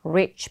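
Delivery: "rich" said carefully with a clear initial R; distinct R. Shown as a demonstration. Teacher contrasts sounds for students, careful R in "rich". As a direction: keep the R in "rich" apart from L. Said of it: "발음 여러분들 잘 구분해 주시고요".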